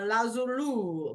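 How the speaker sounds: lazulu, ending in a loo sound; playful mispronunciation. Shown as a demonstration. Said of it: "whatever you wanna say".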